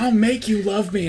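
high, slow, loud eerie vow; hammed-up creepy child, drawn out; creepy mock. Acted creepy line in joke scene.

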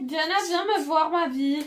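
calling out. Real, not acted. Calling sister to come over.

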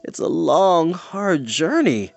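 slow, sighing complaint; weary sigh. Acted. Creature ignoring the girl, slow weary sigh. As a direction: drag it out wearily. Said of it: "Gwistle sighed".

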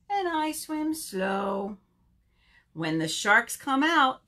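slow, measured action rhyme; children's rhyme. Acted. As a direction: stretch it out for little ones.

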